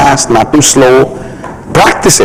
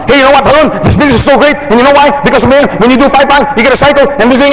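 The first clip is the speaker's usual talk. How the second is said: much higher, rushed, gushing sales pitch; bad example of a hyped-up pitch; overexcited pitch; 11 semitones higher, much faster than usual. Shown as a demonstration. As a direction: gush at him like an overeager salesman. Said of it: "you don't wanna talk like that to someone".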